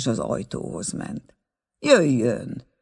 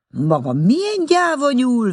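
much higher, louder mock scold; angry scolding; 11 semitones higher, 5 dB louder than usual. A narrator's reading. Schulze scolding the frightened aunt, angry. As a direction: scold her as a coward. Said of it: "vélekedett Schulze úr haragosan".

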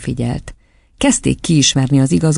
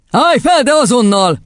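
high, peremptory command; stern order; 10 semitones higher than usual. A narrator's reading. Headmistress to the chosen boy, sternly commanding. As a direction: order the pupil up at once.

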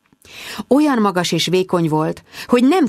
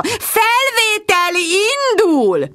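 magas, hosszan elnyújtott vezényszó; rikoltás; much slower than usual. A narrator's reading. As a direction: rikoltsd lassan, magasan, mint egy rendező. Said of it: "rikoltotta a videokamerát emelgető". (elnyújtott, magas rikoltás)

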